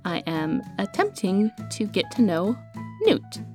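echoing hallway recording. Real, not acted. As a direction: voice bouncing in a hallway. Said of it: "recording this in the hallway".

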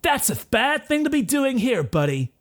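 high put-on challenger voice; cocky cartoon-hero warning; confrontational young hero. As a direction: challenge high, dropping on the last word. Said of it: "And he says".

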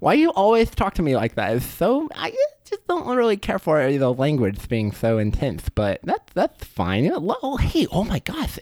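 very high, cheery squeak; squeaky fish creature. Acted. Fish creature greeting its bro friend, very high squeaky voice. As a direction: greet your buddy in a tiny high voice.

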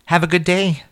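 light high cashier voice; girl's thanks. A narrator's reading. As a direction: chirp it like a friendly cashier. Girl's friendly farewell to customer.

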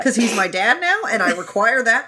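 put-on squeaky, bratty little girl. Voicing bratty Ah Ching.

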